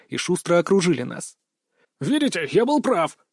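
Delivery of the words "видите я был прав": put-on teen voice breaking; cracking voice. A narrator's reading. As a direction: voice cracking like a teenager. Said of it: "ломающимся голосом произнесла".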